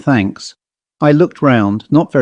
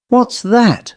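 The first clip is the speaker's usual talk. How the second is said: much higher, sudden startled owl cry; the owl snaps to attention at the bells; sudden hoarse owl; 10 semitones higher than usual. A narrator's reading. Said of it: "said the owl suddenly and hoarsely".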